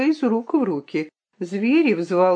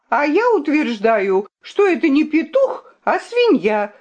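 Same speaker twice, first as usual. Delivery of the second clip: loud accusation; 7 semitones higher, 3 dB louder than usual. Acted. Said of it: "крикнула королевна".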